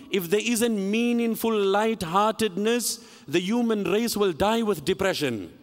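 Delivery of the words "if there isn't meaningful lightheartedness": "meaningful" leaned on with deliberate weight; slow down and underline "meaningful"; measured phrase with emphasis on "meaningful"; stress on MEANINGFUL. Real, not acted. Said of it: "I stress the word meaningful".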